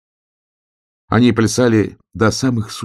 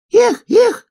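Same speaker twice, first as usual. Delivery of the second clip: very high, louder whoop; 5 dB louder than usual. A narrator's reading. Smaller sun hare whoops during the dance, very high. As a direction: let out a joyful dance whoop. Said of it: "кричал солнечный заяц поменьше".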